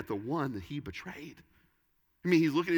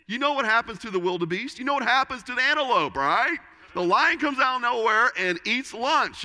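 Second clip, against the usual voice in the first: higher and louder, building to full preaching force; rising preacher shout; 9 semitones higher, 6 dB louder than usual. Real, not acted. Congregation warned of the devil, shouted preaching. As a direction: pastor warning the congregation about the lion, hammering it home loud.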